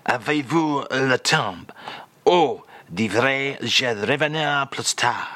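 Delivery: slow, careful French phrase demo; slow French phrase read. Shown as a demonstration. The speaker reads out the French phrase of the day, slowly. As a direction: present it as a lesson phrase. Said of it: "today's French phrase, if you will".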